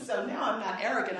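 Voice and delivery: said through a real chuckle; laughing. Real, not acted. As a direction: laugh at your own past arrogance. Laughing about a scary cab ride.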